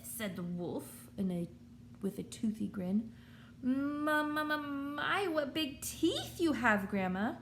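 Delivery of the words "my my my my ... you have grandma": higher, slow, halting fright; a scared girl tripping over words; stuttering. Acted. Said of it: "stuttered Little Red Riding Hood".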